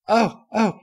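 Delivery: put-on high, loud eager little girl; a kid jumping at the chance; excited filly. A narrator's reading. Apple Bloom's voice.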